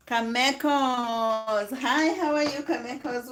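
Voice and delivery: bright, loud welcome to viewers; excited greeting. Real, not acted. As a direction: call out hello to a viewer by name. Live greeting viewers by name.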